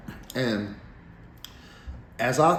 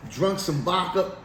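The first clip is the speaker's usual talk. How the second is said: ordinary delivery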